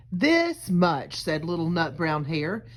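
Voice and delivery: put-on gentle storybook read-aloud for kids; reading to children. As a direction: read it like a picture book to a class. Reads picture book to children.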